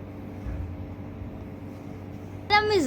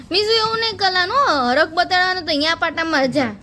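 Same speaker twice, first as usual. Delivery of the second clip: playful scolding; 5 semitones higher, faster than usual. Acted. Fast high scolding to baby.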